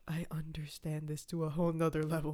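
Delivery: whispered, as if thinking to herself; whispered realization in class about mental health; whispered inner thought. Retold or imitated. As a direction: breathe the thought in disbelief. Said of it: "'Cause I'm just like".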